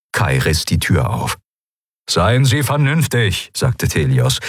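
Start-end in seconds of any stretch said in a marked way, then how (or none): 2.1-3.5 higher-pitched, insistent plea to be reasonable; urgent appeal. A narrator's reading. Admiral urging a departing man to stay, insistent. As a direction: appeal to someone's good sense, pitched up.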